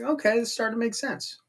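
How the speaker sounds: ordinary talk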